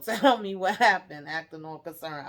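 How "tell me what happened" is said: laughing while imitating fake concern; mock concern, cracking up mid-line; laughing through it. Real, not acted. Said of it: "I don't mean to laugh".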